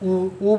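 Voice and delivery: ऊ held slow with rounded lips; long oo. Shown as a demonstration. Teacher demonstrating a lip vowel, long ऊ. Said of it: "जैसे ऊ".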